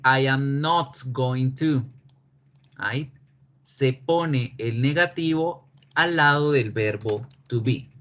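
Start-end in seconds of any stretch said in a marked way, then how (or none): 0.0-1.8 not going to, a little slow; slow negative with not stressed. Shown as a demonstration. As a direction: lean on not. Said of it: "ahora va a decir".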